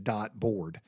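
"Dot board" in two separate words, no r in dot; dot for dart. Retold or imitated. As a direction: echo "Dot board" carefully, dot with no R. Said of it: "actually, I said".

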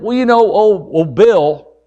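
mildly evasive, stalling son; acted hesitant admission; sheepish son. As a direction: hem and haw before owning up. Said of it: "Well, he said".

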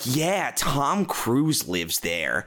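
slow, deadpan tour guide voice; bored tour guide. Retold or imitated. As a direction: drone it like a tired guide.

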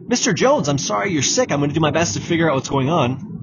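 brisk and detached, no sympathy in it; curt, uncaring tone. Shown as a demonstration. Doctor to sick patient, cold and matter-of-fact. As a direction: rattle it off like you don't care. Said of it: "That's not the sort of tone you want".

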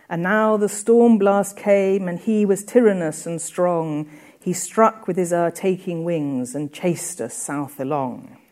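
reciting the storm stanza to the class; poem reading. Acted. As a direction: read the stanza out like verse. Reads stanza aloud.

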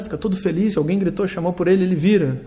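ordinary delivery

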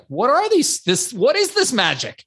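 high, wide-eyed disbelief; amazed wonder. Retold or imitated. Poor kid seeing menus for the first time, high and amazed. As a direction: marvel at the menus like they're magic. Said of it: "I'm like".

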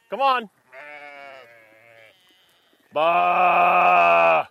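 calling sheep. Real, not acted. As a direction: call the flock in, bleating between calls. Farmer calling sheep in, with baas.

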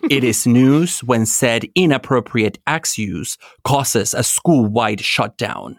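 news anchor read; lightly voiced journalist reading a report; field reporter. Shown as a demonstration. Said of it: "imagine this in a journalistic voice".

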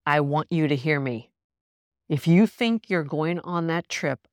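slowing into a firm, deliberate order; mildly emphatic retold command. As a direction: imitate a therapist laying down the law, measured. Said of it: "She's not emphatic that way".

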